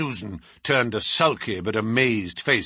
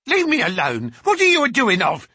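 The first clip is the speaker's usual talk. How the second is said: high, loud screech; screeched protest; 9 semitones higher, 6 dB louder than usual. A narrator's reading. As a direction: screech like a woman being manhandled. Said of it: "she screeched".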